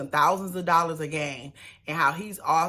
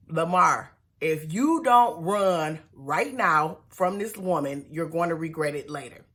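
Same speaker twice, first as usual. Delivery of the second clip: urgent warning; 3 dB louder than usual. Real, not acted. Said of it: "warning Lamar directly".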